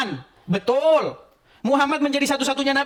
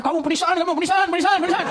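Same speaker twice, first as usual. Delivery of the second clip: mock accusation; 7 semitones higher than usual. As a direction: parody an angry accuser repeating penistaan. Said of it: "Jangan langsung tanpa sebab". (tiruan tuduhan berulang, lebih tinggi dan keras)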